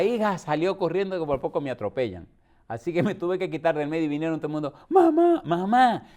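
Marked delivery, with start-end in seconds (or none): 4.9-6.1 high, loud call of mamá; crying out mama. Retold or imitated. Daughter calling her collapsing mother, high alarmed cry.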